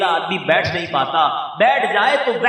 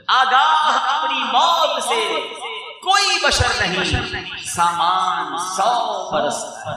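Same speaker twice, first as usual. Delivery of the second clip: line repeated high and loud, slow; declaimed verse, loud; 5 semitones higher, slower than usual. Shown as a demonstration. Preacher repeating the verse on death to the crowd, loud slow declamation. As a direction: shout the verse out slowly to drive it home. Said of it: "line repeated".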